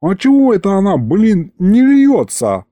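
a confused little demon; puzzled imp. Acted. Aristofan puzzled why the moonshine won't pour.

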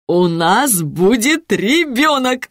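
slow, proud joyful announcement. A narrator's reading. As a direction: announce it beaming, savouring each word. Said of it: "радостно возвестил Петя".

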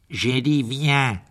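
slow, insistent order; stern command. Acted. Malfoy ordering his elf to follow, sternly. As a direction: draw the command out firmly. Master orders disobedient servant again.

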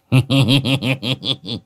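high sly chuckle; old medium's giggle. A narrator's reading. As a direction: giggle like a smug old shaman. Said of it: "cười hì hì".

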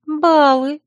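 soft echo. A narrator's reading. Friend echoes the agitated heroine's word, softly. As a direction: repeat it gently in the friend's voice. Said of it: "мягко проговорила Царья".

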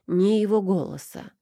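ordinary delivery

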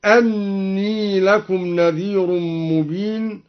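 أني opened as anni, not inni; فتح الهمزة; hamza with fatha. Shown as a demonstration. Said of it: "قرأ الدوري بفتح الهمزة هكذا".

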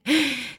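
high, soft little laugh; faint high giggle through the pipe; weak squeaky titter. A narrator's reading. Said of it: "Слабеньким голосом пискнул Брас".

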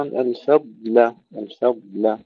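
الفضل with light فاء and لام round a long heavy ضاد; careful الفضل, thick lengthened ضاد; light fa, heavy dad. Shown as a demonstration. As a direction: stretch the dark ضاد in الفضل, keep the rest light. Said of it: "ترقيق الفاء واللام".

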